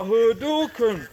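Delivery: mock battle cry, slow and loud; game attack cry. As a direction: stretch it out like launching a special move. Imitates game move shout in retelling.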